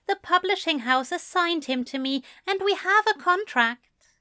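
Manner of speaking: high, gentle character voice, mildly sad. A narrator's reading. Alistair explaining his publishing deal to Crowley, sadly. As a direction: explain it with resigned regret, pitched high. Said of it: "Alistair said sadly".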